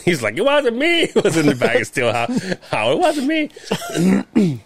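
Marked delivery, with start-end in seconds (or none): 0.4-1.0 high, raised denial; mock denial. Coworker denying it, high mock denial. 2.9-4.6 slow, high drawn-out denial; drawn-out mock denial. Retelling the coworker's denial, slow high. Repeats Howie's line slowly.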